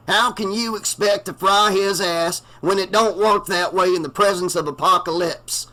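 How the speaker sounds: prophesy death to the crowd; doom-saying preacher. A narrator's reading. The blinded reverend warns the townies, prophetic.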